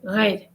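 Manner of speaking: "red" with a guttural French R. Shown as a demonstration. Teacher showing viewers how the French would say it, "red" with guttural R. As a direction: start "red" on a throaty French R. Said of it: "If the French are gonna pronounce red".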